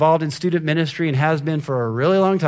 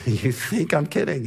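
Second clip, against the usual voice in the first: usual speaking voice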